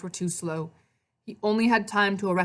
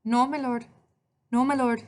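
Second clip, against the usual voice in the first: higher-pitched Italian woman's voice; Italian accent; 6 semitones higher than usual. A narrator's reading. Maria refusing Hades, Italian accent. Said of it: "she spoke with an Italian accent".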